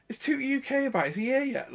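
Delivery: high, excited asking; bursting to know if he's there; eager question. Retold or imitated. Fan asking a friend if his hero is here, excited. Asking a mate about Tootie.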